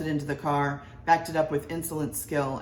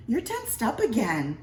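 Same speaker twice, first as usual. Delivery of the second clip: wife fussing; 7 semitones higher than usual. A narrator's reading. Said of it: "said Missus Mitty".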